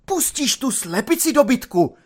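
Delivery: high-pitched furious yell; roaring. A narrator's reading. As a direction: roar an order and an insult. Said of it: "zařval na něho nadporučík".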